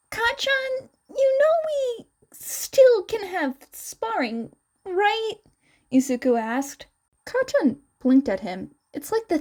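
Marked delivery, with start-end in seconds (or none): 0.1-5.3 gentle reminder. Acted. Izuku reminding Kacchan they can spar, higher voice. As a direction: remind him kindly, pitched up.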